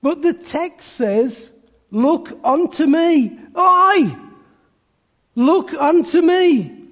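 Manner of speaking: a hint of a homespun cobbler sermon; cobbler preacher. Shoemaker urges congregation to look, lightly imitated preaching with lifted pitch. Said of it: "He did this in a broad Essex accent".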